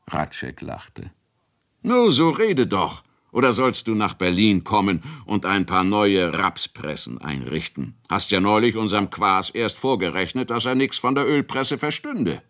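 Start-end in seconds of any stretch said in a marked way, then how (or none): 1.8-12.4 hoch einsetzend, neckend; drängender Bauer. Acted. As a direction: Kunicke will es endlich wissen. Kunicke drängt Ratschek zu reden. (Kunicke bedrängt Ratschek neugierig)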